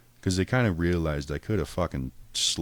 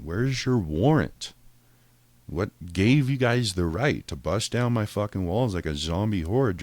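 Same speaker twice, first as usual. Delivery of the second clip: indignant rant; 4 semitones higher, 5 dB louder than usual. Retold or imitated. Ranting at the cops.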